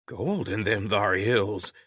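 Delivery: put-on slow, light prospector accent; understated mock Old West accent. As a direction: echo the corny prospector accent slowly. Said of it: "Lou repeated".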